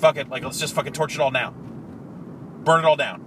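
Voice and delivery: loud furious rant; angry shouting. Retold or imitated. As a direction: yell it like you mean it. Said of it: "like, said".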